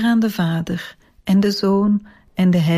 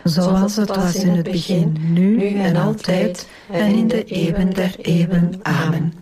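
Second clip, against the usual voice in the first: measured rosary response in unison; praying aloud as a congregation; prayer recitation. Real, not acted. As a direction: recite it together, evenly and devoutly. Group answers the doxology.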